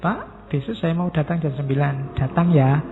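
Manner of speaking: a gentle inviting tone; romantic reading. Shown as a demonstration. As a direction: read the message sweetly, lingering on "Datang ya". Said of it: "kalau saya membacanya romantis".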